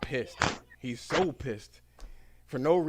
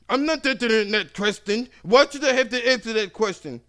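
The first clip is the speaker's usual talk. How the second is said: higher, louder, indignant refusal; angry customer; 10 semitones higher, 10 dB louder than usual. Retold or imitated. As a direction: throw the question back angrily.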